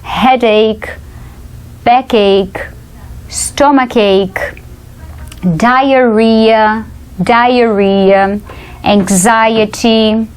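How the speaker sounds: Headache to anxiety, each word isolated and clear; pronunciation drill. Shown as a demonstration. Teacher recaps for students, Headache through anxiety said word by word. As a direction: model Headache, backache, stomachache with pauses for repeating. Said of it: "vamos recapitular a pronúncia deles".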